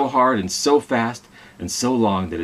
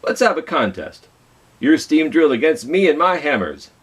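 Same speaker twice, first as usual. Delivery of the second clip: John Henry; 7 semitones higher, 4 dB louder than usual. Acted. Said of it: "John Henry said to him".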